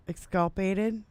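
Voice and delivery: "exculpated" with misplaced stress, unsure; "exculpated" as a questioning mispronunciation; wrong-syllable stress. Real, not acted. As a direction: tentatively stumble on the stress in "exculpated". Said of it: "doing the emphasis on the wrong syllable".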